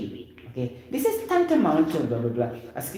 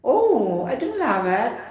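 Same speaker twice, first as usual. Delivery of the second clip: emotional interjection; 8 semitones higher, slower than usual. Shown as a demonstration. Teacher showing how interjections carry emotion. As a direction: throw feeling into "Oh, I don't love it.". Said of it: "Interjection is more on feelings and emotion".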